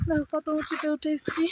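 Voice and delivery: breathy, out of breath; whispery from the climb; wheezy voice. Real, not acted. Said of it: "হাঁপিয়ে গেছি". (হাঁপানো ফিসফিসে গলা)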